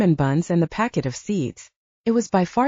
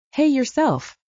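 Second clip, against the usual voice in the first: high, snapped shout back; 8 semitones higher, slower than usual. A narrator's reading. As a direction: fire it right back at him. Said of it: "I shouted back".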